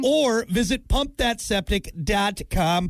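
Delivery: slow, shouted ad tag; mock shouted tagline. Host closing the ad with a hammed-up yelled tagline. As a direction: yell the web address like a pitchman.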